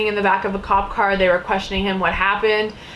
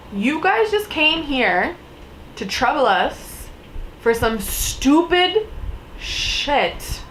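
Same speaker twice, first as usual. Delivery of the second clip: slow, pointed, higher outrage; indignant slow rant; 5 semitones higher, much slower than usual. Retold or imitated. Scolding the officers for the wasted call, slow indignation. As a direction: spell it out in disbelief. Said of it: "So I'm like".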